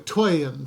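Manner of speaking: put-on TWAIN said the Old English way, slowly in two syllables; Old English pronunciation. Shown as a demonstration. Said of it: "sometimes letters aren't pronounced the same way".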